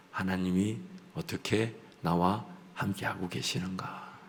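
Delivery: a hushed, wondering whisper; slow whisper. Real, not acted. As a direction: whisper it, slowly and low. Musing on God's presence.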